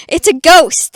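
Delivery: hammed-up ghost panic, half laughing; scared cry. Rereads with a laugh and louder.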